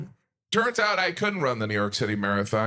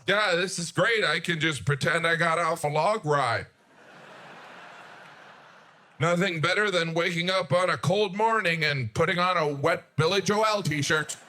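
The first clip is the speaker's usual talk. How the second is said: sarcastic; 3 semitones higher than usual. Retold or imitated. Sarcastic reply holding wet shirt.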